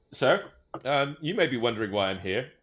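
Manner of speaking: officer at the door, formal and careful; elf police officer. Acted.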